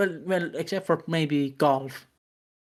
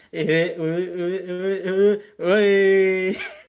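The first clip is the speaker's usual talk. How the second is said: imitated rising noise; 4 semitones higher, 5 dB louder than usual.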